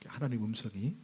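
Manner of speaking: ordinary delivery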